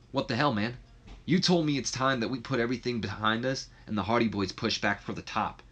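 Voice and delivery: acted annoyance with a touch of accusation; mildly pissed off. Matt confronting Jeff about putting things behind them, mildly pissed off. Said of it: "Matt just kinda pissed off".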